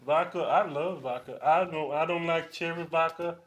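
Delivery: lightly voiced brash analyst; Charles Barkley. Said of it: "Charles Barkley".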